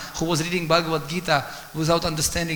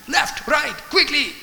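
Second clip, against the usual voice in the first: much higher and louder, urgent directions; urgent commands; 9 semitones higher, 6 dB louder, slower than usual. Shown as a demonstration. Arjuna urging Krishna to turn in battle, loud and urgent. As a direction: bark the turns at the driver.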